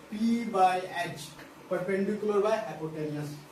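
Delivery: very slow, word by word, as if dictating; slow teacher dictation. Shown as a demonstration. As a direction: spell it out slowly so students can write. Teacher dictating formula to students.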